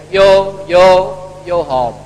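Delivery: loud toast call, mock-cheering; mock drinking toast. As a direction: belt out the toast in jest. Toast replayed as the crash punchline. (nhại tiếng hô cạn ly, to)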